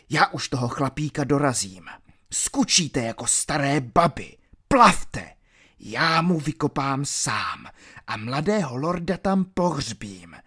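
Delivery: rough, scornful commands; a hint of a bullying thug; villain sending his wounded men away; gruff villain ordering.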